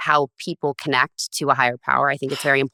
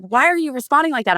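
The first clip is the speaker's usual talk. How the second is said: high mock-bewildered question; puzzled boyfriend; 10 semitones higher than usual. Boyfriend baffled by her reaction, mock puzzled high. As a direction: imitate his confused why.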